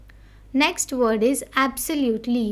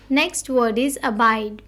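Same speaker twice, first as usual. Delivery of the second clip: slow headword reading. Shown as a demonstration. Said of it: "We need to stress on the word".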